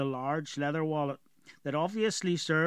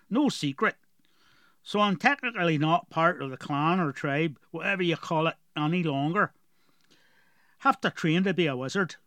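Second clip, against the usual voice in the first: put-on gruff dwarf with a heavy rural accent; strong dwarf accent; 2 semitones higher, 4 dB louder than usual. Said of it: "Galoric had a very strong accent".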